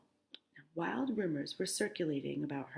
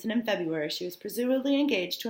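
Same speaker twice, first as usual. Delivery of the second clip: louder, higher, faster re-read of the line; emphatic re-read; 4 semitones higher, 7 dB louder, faster than usual. Real, not acted. Teacher rereading the debut line with fresh emphasis. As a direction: push the line out with energy.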